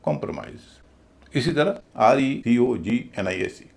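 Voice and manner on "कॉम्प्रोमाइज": कॉम्प्रोमाइज with a weak "pruh" in the middle; light middle syllable. Shown as a demonstration. Teacher repeating for students, middle of कॉम्प्रोमाइज kept light. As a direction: stress first and last parts of कॉम्प्रोमाइज. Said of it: "बीच वाला हिस्सा हल्का बोला जाएगा".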